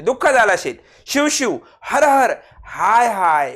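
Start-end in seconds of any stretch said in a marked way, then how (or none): 1.1-3.5 hammed-up grief; mock lament. Shown as a demonstration. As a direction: lament a loss theatrically. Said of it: "हे शोक दर्शक".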